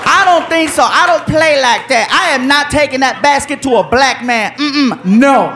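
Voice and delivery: lightly voiced sassy black woman, refusing; a touch of attitude, head shaking no. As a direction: refuse the job with lightly played sass.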